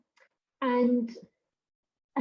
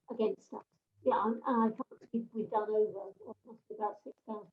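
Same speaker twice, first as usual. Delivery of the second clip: muffled and garbled, rushed; 6 dB quieter, faster than usual. Real, not acted. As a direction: mumble through a bad headset. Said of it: "it was a bit muffled and garbled".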